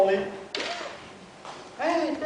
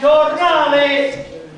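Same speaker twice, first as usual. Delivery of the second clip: long wailing street cry; slower than usual. Acted. Seller stretches the cry.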